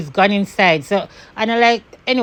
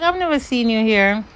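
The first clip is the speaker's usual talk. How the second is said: mock sweet voice; 3 semitones higher than usual. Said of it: "She's like".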